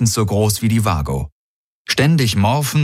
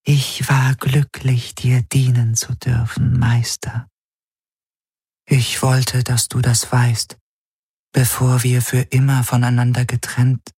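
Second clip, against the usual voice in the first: scheidende Traumgestalt; 5 semitones higher than usual. Acted. Die Gestalt nimmt Abschied. (hohe, langsame Traumstimme zum Abschied)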